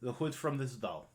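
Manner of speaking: put-on lightly accented shopkeeper; Blinsky the toymaker. Toymaker selling a doll's hood, lightly accented patter. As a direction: offer it in broken English. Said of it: "And he says".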